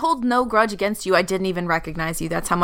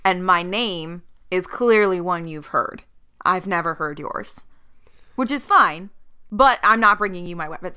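in character; 2 semitones lower than usual. Acted. Player voices her character.

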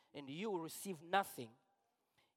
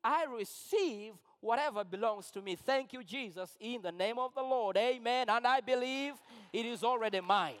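grateful prayer; 5 semitones higher, 4 dB louder than usual. Pretend. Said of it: "I'm like".

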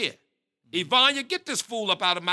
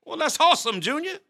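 excited dad; 7 semitones higher, 4 dB louder than usual. Acted. Dad delighted at news.

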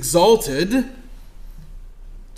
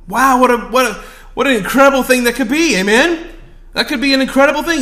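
1 fervent; 7 semitones higher, 8 dB louder than usual. Real, not acted. Fervent preaching exclamation.

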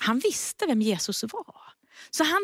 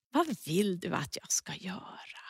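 soft whispered question; 4 semitones lower, 8 dB quieter than usual. Acted. Jesus asking the blind man, whispered. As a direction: hush it to a gentle whisper.

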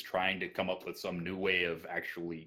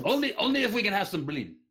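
put-on Russian accent; 14 semitones higher, 7 dB louder than usual. Continues the accent bit.

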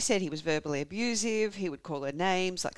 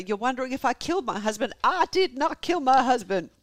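emphatic, louder Southern denial; American Southern accent; 6 semitones higher, 6 dB louder than usual. Acted. Wife getting defensive with police, emphatic American Southern accent. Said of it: "tired of doing the accent".

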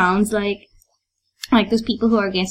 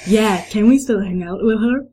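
put-on English accent, wobbly at the end; fake English accent. Sonny asking to hang out, fake English accent. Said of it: "English accent".

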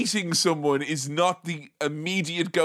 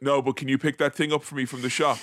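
Paris Hilton; 3 semitones lower, faster than usual. Acted. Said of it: "the mask slips".

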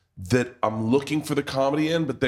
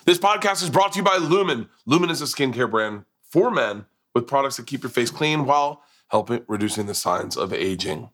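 podcast ad read; 2 semitones higher, 3 dB louder than usual. Acted. Host to listeners for skincare sponsor, ad read. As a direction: launch brightly into the sponsor copy.

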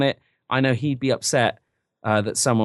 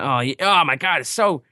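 mock gushing Americans; 6 semitones higher than usual. Americans marvelling at English speech, mock gushing. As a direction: gush like an imitated delighted tourist, pitch climbing. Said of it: "all these Americans being like".

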